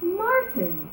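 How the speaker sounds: high, delighted praise; the art teacher gushing; high gushing teacher's praise; exclaimed. Acted.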